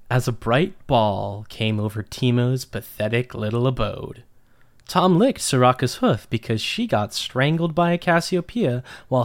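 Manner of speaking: lightly theatrical story narrator. A narrator's reading. Podcast host reads listeners' nonsense story, narrator voice. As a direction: read nonsense as an earnest tale. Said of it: "get my narrator voice ready".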